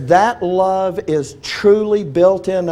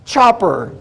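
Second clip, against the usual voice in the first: delighted gushing; 4 semitones higher, slower than usual. Retold or imitated. Barbara gushing to Milt about her new chopper, high delighted squeal. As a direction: squeal with glee over the chopper. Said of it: "I can hear Barbara saying to Milt".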